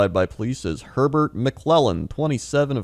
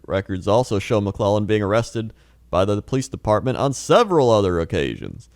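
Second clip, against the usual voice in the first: mock news anchor read; newscaster voice; 5 semitones lower than usual. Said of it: "It's not a newscaster voice".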